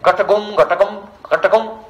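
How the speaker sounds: lightly imitated pigeon coo, rising each time; pigeon imitation. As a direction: repeat it like a cooing pigeon. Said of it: "the pigeons, they give the answer".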